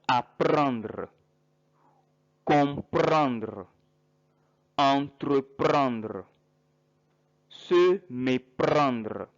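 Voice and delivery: slow French verb list for learners; careful French pronunciation. Shown as a demonstration. Teacher to English-speaking students, slow careful French. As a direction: read each verb slowly as a teacher. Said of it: "you have verbs like".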